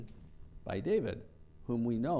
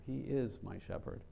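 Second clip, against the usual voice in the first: "is" stands out in a softer delivery; stress on is; 6 dB quieter than usual. Shown as a demonstration. Preacher affirms present care, softer stress on "is". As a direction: softly land the emphasis on "is". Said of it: "let's emphasize each word".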